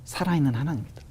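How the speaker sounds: lightly voiced, hushed divine presence; voice of God. God's voice heard in testimony. (낮고 조용하게 엄숙한 하나님의 음성)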